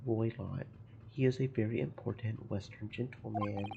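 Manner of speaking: a hint of a Russian accent, gruff and proud; broken-English Russian sailor. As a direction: play the touchy ship's guard, lightly accented. Guard praises the Western gentleman.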